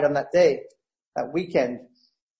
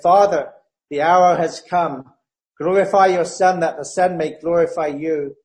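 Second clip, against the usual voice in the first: louder, solemn reading of the prayer; 4 dB louder than usual. Acted. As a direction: read the prayer to the Father with reverence. Reads the high priestly prayer.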